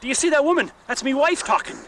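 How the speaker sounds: high, loud amused Irish man; mock Irish husband. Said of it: "he says".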